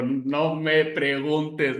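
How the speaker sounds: very drawn-out, word by word; slow, weighty retold answer; retold stunned reply. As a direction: stretch each word out slowly, as if still dazed. Retelling his stunned answer afterwards.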